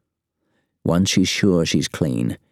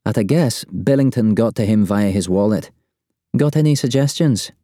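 higher, pressing character voice; urgent agent reporting; 5 semitones higher than usual. A narrator's reading. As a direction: report the breach urgently, pitched up. Narrator voices Mo on the phone.

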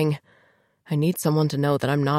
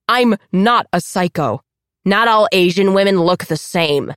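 snarling; 3 semitones higher, 6 dB louder than usual. Acted. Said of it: "Diana snarls".

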